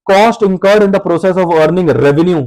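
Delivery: slow, word-by-word dictation. Shown as a demonstration. Teacher dictating the definition to students, very slowly. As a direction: spell it out slowly so students can copy.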